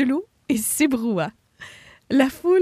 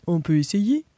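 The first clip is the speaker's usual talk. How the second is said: deep hippo voice; 5 semitones lower, 3 dB louder than usual. Acted. Hippo character voice.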